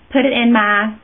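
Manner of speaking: a hint of a Texas twang; Texas Barbie. Real, not acted. Makeup vlogger applying shadow to her crease, light Texas accent. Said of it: "I'm channeling my Texas Barbie here".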